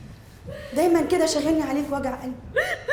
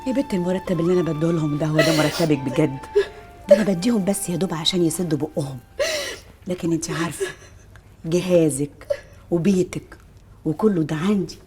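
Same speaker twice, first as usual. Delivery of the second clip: lower-pitched, soothing explanation; reassuring; 6 semitones lower than usual. Acted. Mistress promising the girl her trousseau, reassuring. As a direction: settle her down in a low, steady voice.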